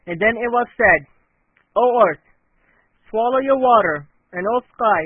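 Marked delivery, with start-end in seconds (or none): 1.8-5.0 loud, solemn command; commanding call. Acted. A divine command to earth and sky, loud and solemn. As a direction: proclaim it to the whole earth.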